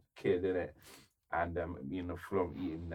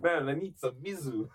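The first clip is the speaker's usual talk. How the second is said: raised, laughing mock groan; mock hungover voice; 6 semitones higher than usual. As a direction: play the wrecked hungover guy, half laughing.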